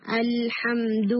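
الحمد recited slowly, final 'du' without breath; correct daal. Shown as a demonstration. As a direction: finish الحمد on a clean, hard d. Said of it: "دھو کر کے نہیں".

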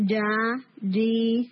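جا، جی with a hard clean j and held vowel; strong hit. Shown as a demonstration. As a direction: hit the j firmly, tongue straight back. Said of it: "strong ہٹ کر کے ٹنگ کو فوراً واپس لیں".

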